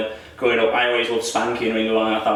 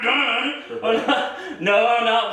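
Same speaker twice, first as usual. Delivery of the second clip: much higher, laughing no no no; mock panic; 11 semitones higher, much slower than usual. Son caught out by dad about telling mum, mock-panicked and high. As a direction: squeak out the denial like a caught kid.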